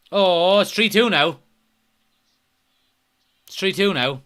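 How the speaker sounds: real shocked outburst, slowed down; dismayed surprise. Real, not acted. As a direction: react loudly to a goal going in. Startled reaction to conceded goal.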